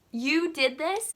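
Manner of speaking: high, loud, drawn-out question; mock incredulous accusation; imitated disbelief. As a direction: slowly ask it, aghast. Guys react in disbelief.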